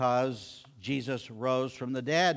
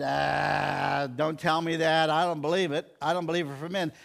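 doubting disciple. Retold or imitated. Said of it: "Doubting Thomas wasn't there".

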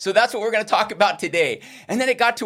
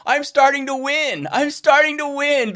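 celebrating; 5 semitones higher than usual. Retold or imitated. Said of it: "I was celebrating that".

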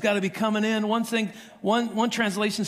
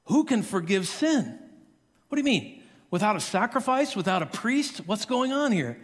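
incredulous, rising outrage; indignant crowd; 3 semitones higher than usual. Retold or imitated. Crowd reacting to forgiveness, incredulous and rising. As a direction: voice the shocked crowd. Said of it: "the crowd goes".

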